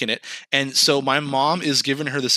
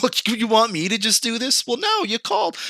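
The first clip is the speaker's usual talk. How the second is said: mock disbelief; 9 semitones higher than usual. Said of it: "It's like".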